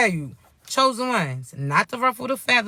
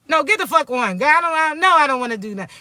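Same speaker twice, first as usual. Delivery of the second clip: mock irritated refusal; acted upset cussing; 3 semitones higher, faster than usual. Person with the wrong partner cussing them out, mock upset. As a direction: brush someone off, playing fed up. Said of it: "You just upset, cussing they asses out".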